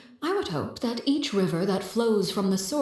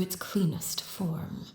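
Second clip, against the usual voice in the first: slow, much softer menacing hush; soft whisper; 6 dB quieter, slower than usual. Acted. Harbinger promising Neuvillette a cleansing, slow soft whisper. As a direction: let the promise fade to a whisper.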